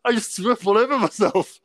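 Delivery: high-pitched, amused retelling; mock distressed confession. Brother getting out at the car park, mock distressed confession.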